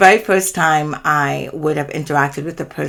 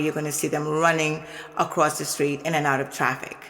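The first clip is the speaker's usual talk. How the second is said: offhand, matter-of-fact, and softer; said casually; 7 dB quieter than usual. Retold or imitated. Driver tells the passengers in an offhand, softer voice. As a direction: toss it off quietly, like common knowledge. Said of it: "It was said casually".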